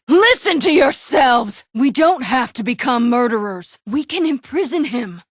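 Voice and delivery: impassioned and pressing; urgent loud plea. Acted. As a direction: shout them down to stop a killing. Pleads with crowd against killing.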